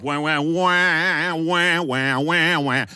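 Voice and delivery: wah chant sung a minor third up; whine going up. Shown as a demonstration. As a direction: step the wahs up a third. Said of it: "You go up".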